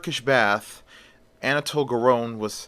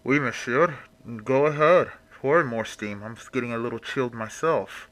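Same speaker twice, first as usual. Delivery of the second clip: muffled, as if through a towel. Acted. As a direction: speak through cloth over the face. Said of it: "with a muffled voice behind the towel".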